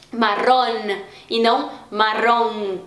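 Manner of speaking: "marrón" with a clear final n, then "marrom" nasal Portuguese; Spanish n, then Portuguese nasal; Spanish n versus nasal. Shown as a demonstration. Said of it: "esse som meio nasalado português".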